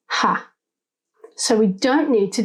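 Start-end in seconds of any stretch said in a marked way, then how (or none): 0.1-0.5 "ha" alone as a short syllable; stressed first syllable. Shown as a demonstration. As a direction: isolate "ha" from the word. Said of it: "the stress is on the first syllable".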